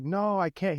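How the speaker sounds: a high, whiny little-kid no, lightly voiced; imitating a toddler. Father voicing his whining son.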